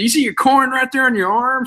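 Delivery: high playful teasing voice; teasing a toddler. Retold or imitated. Dad teasing his son about his arm, high and playful. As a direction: tease the little boy, voice up high.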